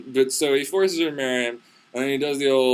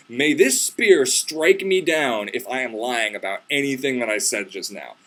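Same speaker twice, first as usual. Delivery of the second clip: mock-solemn oath; 2 semitones lower, slower than usual. Hero swears oath on spear.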